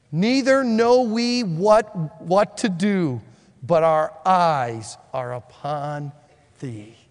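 slow, solemn scripture prayer; praying for help. Acted. Jehoshaphat prays for help against enemies, slow solemn pleading. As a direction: draw out each phrase as a plea to God. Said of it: "Here's his prayer".

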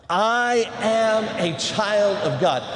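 slow, measured words for repeating; leading a recitation. Shown as a demonstration. Preacher leading chapel in a declaration, slow recitation. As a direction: stretch each word so a crowd can join. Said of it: "One more time".

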